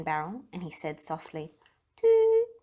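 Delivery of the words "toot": high, loud booming toot back; echoing shout. A narrator's reading. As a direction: shout it like an echo from a barrel. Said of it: "shouted the barrel".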